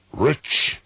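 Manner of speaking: high, loud anguished cry. A narrator's reading. Narrator cries out at the raven, high and loud. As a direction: fling the word out in anguish. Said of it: "I cried".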